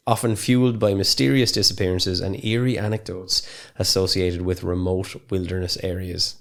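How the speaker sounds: measured podcast intro reading; scripted intro read. Real, not acted. Podcaster introducing feral cannibal legends, reading from notes. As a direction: read the prepared explainer aloud, evenly.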